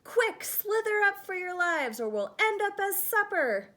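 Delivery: urgent panic. Acted. Snails urging escape from bird, urgent panic. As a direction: urge everyone to flee. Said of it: "cried the snails in panic".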